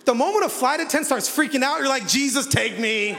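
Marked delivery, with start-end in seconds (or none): 2.1-3.2 mock desperate prayer.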